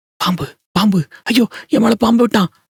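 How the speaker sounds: screaming in terror. Reading a horror story, a possessed wife screams: screaming in terror. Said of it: "அப்படின்னு கத்திக்கிட்டு".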